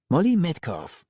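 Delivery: brash tough woman's voice; Roxy Hazard voice. Acted.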